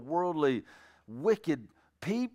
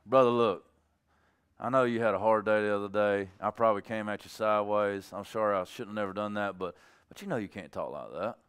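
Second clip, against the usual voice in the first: gentle correction; 4 semitones lower than usual. Acted. Approaching the brother who cussed him out, gentle correction. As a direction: ease into it kindly, without attacking. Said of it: "I'm not coming at him hard".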